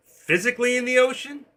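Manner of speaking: high, loud, disbelieving query; incredulous question. Real, not acted. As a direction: pitch it way up as if baffled. Puzzled by a chat message.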